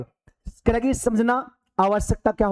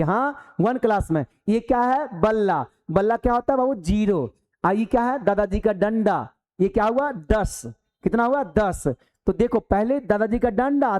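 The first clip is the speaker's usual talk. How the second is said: put-on teaching small children; 2 semitones higher than usual. Shown as a demonstration. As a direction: demonstrate a simple question-and-answer lesson for little kids. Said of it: "ऐसे करके सिखाइए बच्चा की तरह". (छोटे बच्चों को सिखाने जैसा हल्का अंदाज़)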